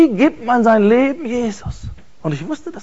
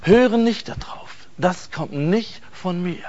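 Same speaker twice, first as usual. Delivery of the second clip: gentle voice; 2 semitones lower than usual. Retold or imitated. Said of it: "ganz lieb und wirklich sanft".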